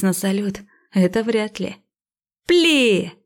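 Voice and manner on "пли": higher, mock artillery order; firing command. A narrator's reading. Fireworks launched from the bushes, called-out command. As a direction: call out the order to fire.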